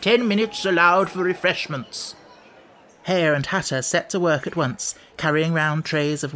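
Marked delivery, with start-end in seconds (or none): 0.0-2.1 raised, higher announcing call. A narrator's reading. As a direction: call it out to everyone as the king. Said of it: "the king called out".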